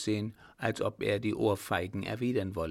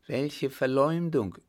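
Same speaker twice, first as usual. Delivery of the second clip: higher, louder, drawn-out outcry; indignant cry; 6 semitones higher, 5 dB louder than usual. A narrator's reading. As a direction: cry out slowly in offended protest. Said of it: "rief der Baron".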